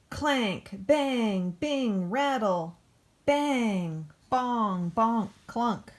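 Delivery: punchy machine noise words. Acted. Backhoe dumping junk, hammy clanking noise words. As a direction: bang out each clanking sound. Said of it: "Hope you like noise".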